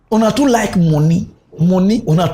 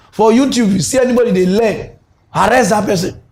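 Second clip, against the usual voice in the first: raised, pompous order voice; mock decree; 3 semitones higher than usual. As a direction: bark out decrees like an official.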